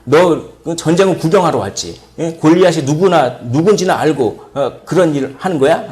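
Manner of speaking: mildly worked-up retold telling-off; a touch of big-brother indignation; acted angry rebuke. Eldest brother accusing the youngest of coming to watch, mildly angry rebuke. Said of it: "화를 내면서 그렇게".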